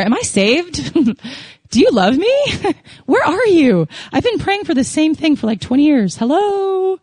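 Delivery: high, pleading, half-laughing complaint to heaven; a frustrated child calling out, where are you; exasperated plea to God. Retold or imitated. Exasperated prayer to silent God.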